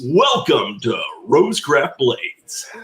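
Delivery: slow announcer read; radio voice. Shown as a demonstration. Asked for his radio voice, a slow announcer read. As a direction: deliver it like a radio host. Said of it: "Can you do your radio voice?".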